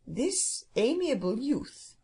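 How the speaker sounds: slow, drawn-out grand bird voice; stately phoenix. Acted. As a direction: address them as a condescending phoenix. Phoenix voiced, addressing the others.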